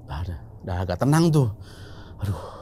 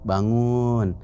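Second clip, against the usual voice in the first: retold dawn wake-up call. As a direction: imitate the pre-dawn caller, stretching the words. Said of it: "ada yang teriak". (menirukan seruan bangun subuh, datar dipanjangkan)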